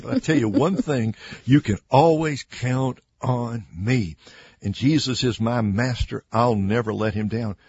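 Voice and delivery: loud, emphatic self-assurance, mildly acted; a hint of a cocksure disciple; boastful Peter. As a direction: pledge loyalty loudly, lightly playing the braggart. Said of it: "Peter would say".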